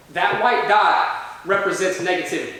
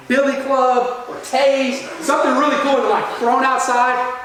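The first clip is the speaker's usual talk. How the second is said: higher-pitched, relishing build-up; retold gleeful excitement; 5 semitones higher than usual. Younger sibling picturing brother's comeuppance from cops, gleefully excited. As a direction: drag out the imagined revenge with delight. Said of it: "in all of my excitement".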